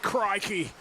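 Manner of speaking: badly faked Aussie accent; bad Australian accent. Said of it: "a really bad accent".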